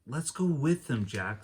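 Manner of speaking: put-on high eager girl's voice. Annie urging Jack to follow, high eager girl voice. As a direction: coax him like an excited little sister.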